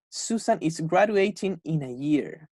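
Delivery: slow, clear read, stress on graduating; teacher demonstrating the future meaning slowly; slow model sentence. Shown as a demonstration. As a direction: spell out the example for learners. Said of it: "si yo pongo mi future time expression".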